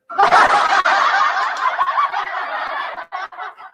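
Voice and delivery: loud high laughter at herself; big laugh. Real, not acted. Vlogger laughing at her own impression, loud laugh.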